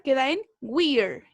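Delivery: we're slowed, only the r kept after we; pronounce we're. Shown as a demonstration. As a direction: stretch we're as one syllable ending in r. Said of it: "solamente con la pronunciación de la R".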